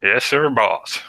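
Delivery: put-on American Southern accent. Brit playing obedient underling, Southern accent. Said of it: "good, like, Southern accent".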